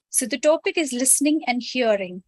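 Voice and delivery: ordinary delivery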